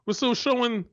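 high-pitched, disbelieving outrage; incredulous anger. Real, not acted. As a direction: voice climbing in disbelief, fed up. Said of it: "I understand why you're so angry".

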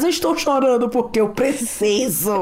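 lightly voiced defiant little girl; imitating daughter. Mother quoting daughter's answer, mild defiant child voice. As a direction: give the child's stubborn reply.

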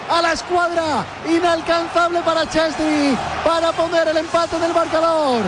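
rapid ecstatic goal call; breakneck goal commentary. Real, not acted. Live call of Suso goal.

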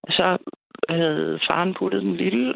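ordinary talk, nothing marked

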